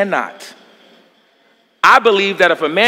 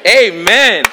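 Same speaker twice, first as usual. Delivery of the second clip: ordinary delivery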